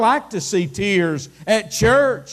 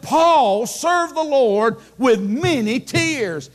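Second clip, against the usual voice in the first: preaching shout; 3 semitones higher, slower than usual. Real, not acted. Preacher to his congregation, a slow ringing shout. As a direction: hammer the line home to the congregation. Preacher driving home main point.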